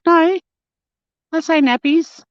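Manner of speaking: high, insistent correction; indignant retort. Retold or imitated. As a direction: push back, indignant.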